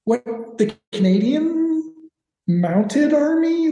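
voix moqueuse et incrédule; incredulous mockery. Real, not acted. Mocking incredulous question.

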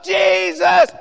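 high, loud ringing command; Jesus commanding. Acted. Jesus telling the crowd to bring the man, shouted. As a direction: call the order out over the crowd. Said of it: "Jesus answering".

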